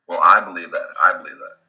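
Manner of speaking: ordinary talk, nothing marked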